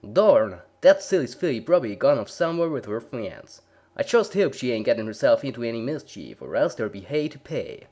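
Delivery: loud, fretful twang; exasperated country girl. A narrator's reading. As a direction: sigh it out, half annoyed. Applejack voiced.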